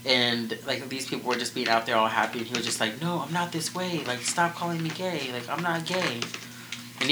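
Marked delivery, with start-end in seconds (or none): 3.0-6.2 higher-pitched, insistent mock denial; retold protest. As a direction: protest in someone else's words, pitched up. Voicing his denial of being gay.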